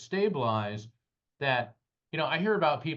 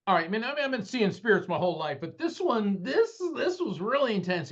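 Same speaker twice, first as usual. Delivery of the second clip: stunned excitement; 9 semitones higher than usual. Real, not acted. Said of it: "excited retelling".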